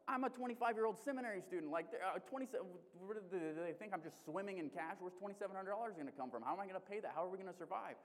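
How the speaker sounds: mock outrage at the bill; exasperated disbelief. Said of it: "a whole bunch of emotions".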